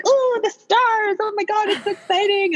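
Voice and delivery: mock starstruck gush. At the film festival waiting for Justin, mock starstruck gushing. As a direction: gush over the stars like a giddy fan. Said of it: "We're like".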